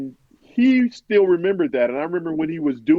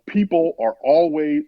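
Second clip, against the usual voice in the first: slow, higher retold anger; getting angry; 4 semitones higher, slower than usual. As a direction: imitate anger starting to build. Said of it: "he starts to get angry".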